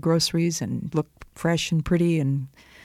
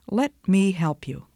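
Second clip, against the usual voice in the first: tender whisper; 3 semitones higher than usual. Acted. Great Spirit gently helps chipmunk.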